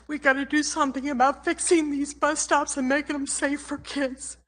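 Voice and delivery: pushing the words out through rising emotion; emotional, close to tears. Real, not acted. Grandmother pleading with the council over bus stops, voice strained. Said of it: "I'm just so emotional about this".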